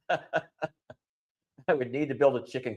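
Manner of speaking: soft, slow, laughing speech. Real, not acted. Admitting no place for the chicks, laughing. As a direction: let quiet laughter break into the words.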